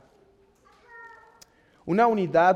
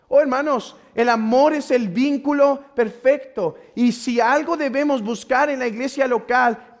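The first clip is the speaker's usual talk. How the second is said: raised, fervent pulpit voice; impassioned preaching; 5 semitones higher, 5 dB louder than usual. Acted. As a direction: proclaim it to the whole congregation. (predicación ferviente)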